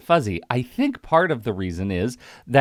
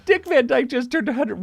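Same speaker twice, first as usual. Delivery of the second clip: put-on Cockney accent. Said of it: "my terrible Cockney accent".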